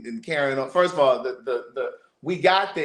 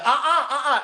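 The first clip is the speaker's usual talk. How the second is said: mock disapproving no; 12 semitones higher, 4 dB louder than usual. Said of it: "somebody said".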